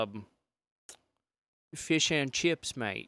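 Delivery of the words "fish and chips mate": slow attempt at an English accent. Shown as a demonstration. Guest doing accents on request, tentative English accent. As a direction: try an English accent, unhurried. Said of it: "let's do an English".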